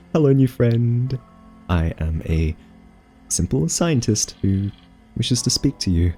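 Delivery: mock formal greeting. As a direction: speak like first contact with an alien. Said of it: "I can carry the conversation for a bit".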